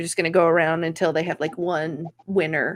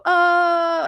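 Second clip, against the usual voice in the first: high-pitched mock crowd "oh"; audience reaction; 10 semitones higher, 4 dB louder than usual. Comic showing what roast audiences do, mock scandalized crowd reaction. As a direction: imitate a crowd reacting to a burn. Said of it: "where the audience can go".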